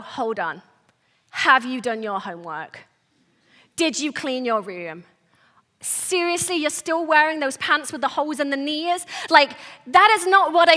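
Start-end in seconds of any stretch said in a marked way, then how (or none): 0.0-9.1 mock interrogating parent, held back; cold stern parent. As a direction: hold the kids off and quiz them coldly. Cold parent instead of hugging kids.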